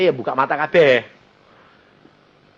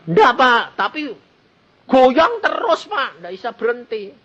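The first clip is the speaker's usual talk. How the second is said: worried plea; 9 semitones higher, slower than usual. Retold or imitated. Worried daughter pleads with pastor.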